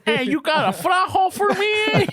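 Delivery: high, shouted chola impression. High shouted chola voice mocking an old lady. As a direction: play the tough East L A chola.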